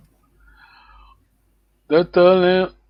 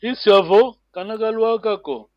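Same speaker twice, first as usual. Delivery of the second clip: "Isiavo" high and rising, "kanakalwakako" high then falling; wondering tone; 3 semitones higher, 4 dB louder than usual. Shown as a demonstration. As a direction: model the question tone: lift "Isiavo", then let "kanakalwakako" drop at the end. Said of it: "that accent, I mean, that to-, tone".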